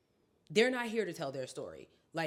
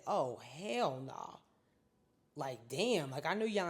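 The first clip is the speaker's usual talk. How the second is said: Lyndon B Johnson; 4 semitones lower than usual. Retold or imitated. Quotes the president's supposed reaction.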